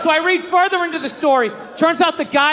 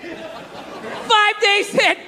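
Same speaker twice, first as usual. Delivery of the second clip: slow, drawn-out; 7 semitones higher, much slower than usual. Real, not acted.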